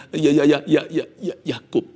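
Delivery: a touch of tremble, halting; trembling voice. Acted. Jacob admits his name to God, trembling. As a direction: falter as if voice shakes. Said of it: "Sautan kali ini penuh dengan getaran".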